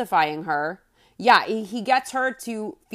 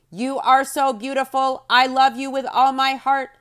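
lightly voiced robot, a bit higher; a hint of stiff machine; 5 semitones higher, 4 dB louder than usual. Retelling husband's robot-voice compliment, light robot. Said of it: "Cody does his robot voice".

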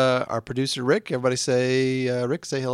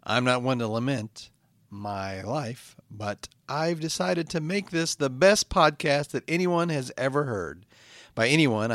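measured, declaimed show opening; podcast intro; slower than usual. Acted. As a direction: recite your solemn intro from hell. Host recites show intro.

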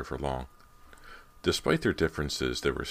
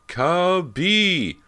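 much higher, louder desperate yell; frantic shout; 9 dB louder than usual. A narrator's reading. James shouts for the lost dog, higher and louder still. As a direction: scream the dog's name across the yard. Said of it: "James frantically called the dog".

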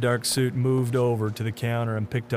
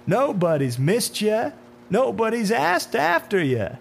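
cackling taunt, loud and very high; mocking laughter; 11 semitones higher, 6 dB louder, slower than usual. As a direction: gloat in a slow, high, gleeful crow. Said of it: "The man in the dark suit laughed".

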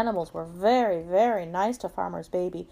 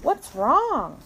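higher questioning hen; lightly voiced chicken, pitched up; storybook chicken; 5 semitones higher, 4 dB louder than usual. A narrator's reading. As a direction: ask as the concerned chicken. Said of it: "said Chicken".

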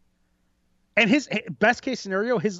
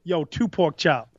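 slow, heavy demand; slow Suge voice; slower than usual. Pretend. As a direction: drawl the order like a tired boss. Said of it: "he's like".

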